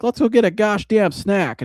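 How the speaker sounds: Rex Ryan impression. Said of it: "And then he's like".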